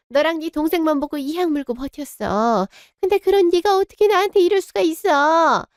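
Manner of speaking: mother shrieking at her son who threatens to cut ties; furious wail. Acted. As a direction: scream it at the ungrateful son. Mother yells at her defiant son.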